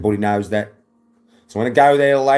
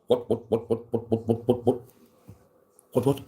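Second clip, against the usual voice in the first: quick, soft little echoes of the squawk; hushed rapid repeats; 6 dB quieter than usual. Pretend. Streamer winding down his silly routine, suddenly hushed. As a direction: drop suddenly quiet and rattle them off.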